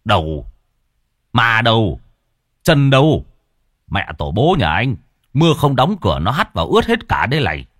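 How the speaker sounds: rising questions then a fast telling-off; exasperated scolding. Acted. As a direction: snap at the son for leaving the door open. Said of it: "trợn mắt".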